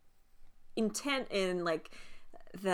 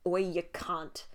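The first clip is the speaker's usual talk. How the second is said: unfriendly jab. Shown as a demonstration. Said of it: "That's not a friendly one".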